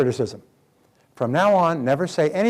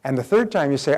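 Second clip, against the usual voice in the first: usual speaking voice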